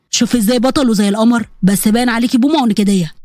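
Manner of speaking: low, smug male voice; smug blackmailer. Acted. Blackmailer to his frightened victim, low and smug. Samir mocks the pleading girl.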